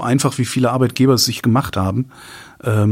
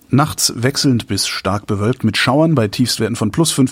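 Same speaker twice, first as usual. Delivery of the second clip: weather read. Acted. Reading weather forecast.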